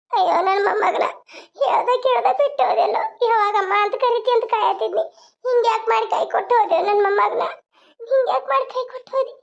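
broken, tearful wail; sobbing lament. Acted. Grandparent asking the dead grandchild why he left, sobbing lament. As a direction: lament through sobs.

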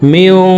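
মিয়ং with the ন hidden in the nose; nasal ghunnah. Shown as a demonstration. Teacher shows students ikhfa nasalization. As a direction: hum the ন through the nose. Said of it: "নাকের ভিতরে লুকাইয়া গুন্নার সহিত পড়ব".

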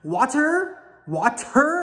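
"Water" with a hard, released T; emphasis on the T. Shown as a demonstration. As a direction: overdo the T in "Water", wah-TER. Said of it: "put an emphasis on the T".

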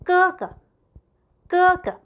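teacher modelling 哥哥; Chinese tone demo. Shown as a demonstration. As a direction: sing out 哥哥 high and even. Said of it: "오빠, 형".

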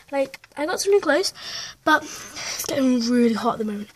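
breathless after running upstairs; puffing between words; out of breath. Real, not acted. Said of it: "that's why I'm running out of breath".

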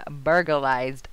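"burglarized" stumbled over; mispronounced "burglarized". Real, not acted. Player recapping the episode, fumbled "burglarized". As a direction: trip on the word "burglarized". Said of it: "I'm saying that wrong".

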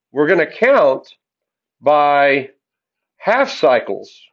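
slow, spaced out, leaning on half; stress on half. Shown as a demonstration. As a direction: spell out half cycles slowly and deliberately. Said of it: "not quarter cycles".

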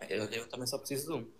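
sounds underwater; muffled. Real, not acted. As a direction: speak as if through water. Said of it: "Estás a falar debaixo d'água?".

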